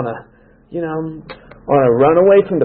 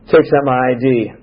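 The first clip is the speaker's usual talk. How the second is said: normal talking voice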